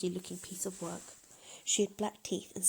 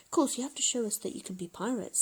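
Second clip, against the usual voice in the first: snarled; 4 semitones higher, 4 dB louder than usual. Acted. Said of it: "snarled the smallest and smelliest pirate".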